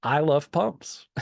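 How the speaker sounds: slow, drawn-out I love pumps; enthusiastic declaration. Retold or imitated. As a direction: savour each word of I love pumps. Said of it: "there's this one part of the script where I just say".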